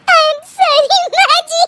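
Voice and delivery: slow, high apology squeezed through giggles; helpless high laughter around the words; laughing apology. Acted. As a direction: try to say sorry while cracking up. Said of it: "फिर से हंस रही है".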